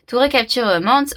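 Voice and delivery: English read with a French accent; French accent on English words. Real, not acted. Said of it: "vous marrez pas de mon accent anglais".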